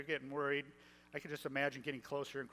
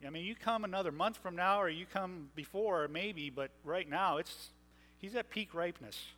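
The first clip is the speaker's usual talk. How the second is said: wry Martha. Retold or imitated. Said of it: "Martha says".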